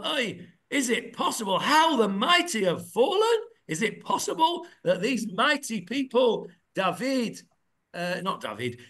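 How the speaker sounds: stunned lament as a question; disbelieving question. Shown as a demonstration. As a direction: ask how it could be possible. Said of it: "question mark form".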